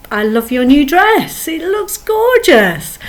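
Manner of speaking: warm, lively praise with a high lift on gorgeous; mean every word; sincere, glowing compliment. Shown as a demonstration. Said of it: "But if we say it like".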